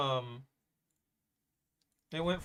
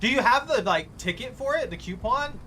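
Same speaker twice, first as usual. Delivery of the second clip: high, eager, louder questions; excited; 5 semitones higher, 3 dB louder than usual. Real, not acted. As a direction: pitch up with excitement. Excited about rare tank.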